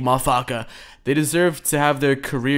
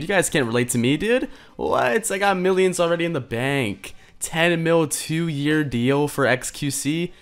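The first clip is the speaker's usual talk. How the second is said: mock rich streamer. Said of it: "Those are the vibes I get from this Pokemon".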